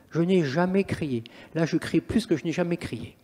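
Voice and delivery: ordinary talk, nothing marked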